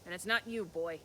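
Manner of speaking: a menacing troll sniffing for a human; troll's suspicion. Acted.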